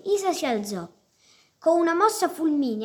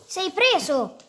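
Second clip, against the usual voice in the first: breathless, higher gasped cry; panting; 7 semitones higher, 5 dB louder, slower than usual. A narrator's reading. Mesei pinning Isa, panting in triumph. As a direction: gasp it out after pinning him down. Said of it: "ansimò".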